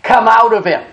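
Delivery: measured, acted-out rebuke; preacher quoting an order to a demon; Jesus. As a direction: give a firm scriptural command. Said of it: "And Jesus rebuked him".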